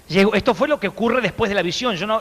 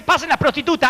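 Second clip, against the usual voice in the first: mock shout; 7 semitones higher than usual. Mock preacher calling out.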